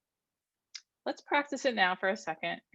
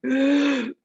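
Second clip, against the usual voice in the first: sharp gasping in-breath; 7 semitones higher, 6 dB louder than usual. Shown as a demonstration. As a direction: gasp in sharply. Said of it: "without going".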